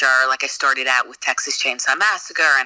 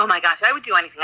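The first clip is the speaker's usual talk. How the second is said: excited gush; 3 semitones higher, much faster than usual. Retold or imitated. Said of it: "I was like".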